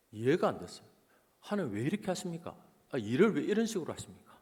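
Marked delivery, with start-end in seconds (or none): 1.4-4.4 되살려 낸 답답한 하소연; 하나님께 따져 묻듯 가볍게 재연. Retold or imitated. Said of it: "답답했어요". (답답해하며 따지는 말투)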